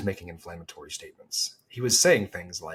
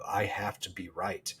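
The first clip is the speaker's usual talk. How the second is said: whispered; 7 dB quieter than usual. Retold or imitated. Quoting media mindset.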